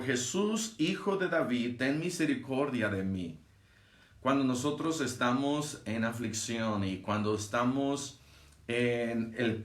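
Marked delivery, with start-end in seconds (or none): 0.0-3.4 clamor imitado. Retold or imitated. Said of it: "dando voces dijo". (clamor imitado, sin gritar)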